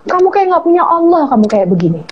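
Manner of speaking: a hint of a stern mother; mother firmly scolding her daughter, lightly voiced. Mother on the phone firmly telling her daughter, lightly voiced. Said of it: "Dia tegesin suaranya".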